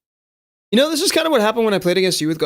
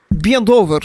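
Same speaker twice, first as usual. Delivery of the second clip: mock gay Russian voice; 3 semitones higher, 4 dB louder, slower than usual. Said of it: "How do you sound gay in Russian".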